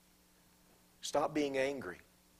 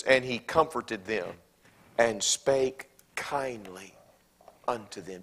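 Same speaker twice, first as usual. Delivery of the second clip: slow emphatic reading; 4 semitones lower, slower than usual. Shown as a demonstration. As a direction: draw out spake kindly, very slow. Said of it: "Do you see it?".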